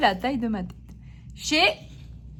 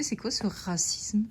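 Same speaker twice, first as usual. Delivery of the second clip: mock outrage; 3 semitones lower, 5 dB quieter, slower than usual.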